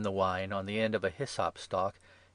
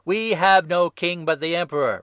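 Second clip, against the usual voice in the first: high, emphatic crowd-like reply; loud retort; 9 semitones higher, 11 dB louder than usual. A narrator's reading. Chief priests rejecting their king to Pilate, shouting back. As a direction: fire back loudly at the governor.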